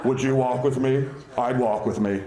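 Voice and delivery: a light take on a creepy killer talking to a dog; creepy Buffalo Bill. Retold or imitated. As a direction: say it like a lurking psycho. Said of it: "like Buffalo Bill from Silence of the Lambs".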